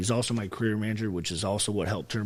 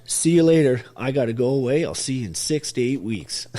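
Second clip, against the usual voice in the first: mock cheery goodbye; 3 semitones higher, 7 dB louder than usual. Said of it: "She was there not even twenty-four hours".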